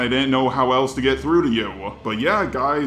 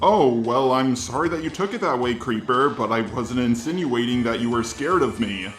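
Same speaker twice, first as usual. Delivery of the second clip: robot voice. Shown as a demonstration. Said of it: "doing this response in the robot voice".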